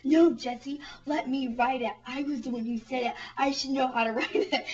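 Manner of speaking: mock indignant protest, loud at first; retold annoyance. Demanding to write the script from Jessie, mock indignation. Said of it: "did something that pissed me off".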